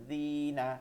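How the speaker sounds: "জিনা" with the zi held for one beat; one-alif stretch. Shown as a demonstration. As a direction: lengthen the i of "জিনা" slightly. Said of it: "এক আলিফ টান হবে". ("জিনা"-র "জি" এক আলিফ টেনে)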